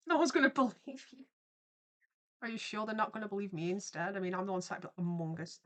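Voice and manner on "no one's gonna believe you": loud, fast laughing repeat; laughing echo. Pretend. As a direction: throw the line back laughing. Teasing echo of friend's line.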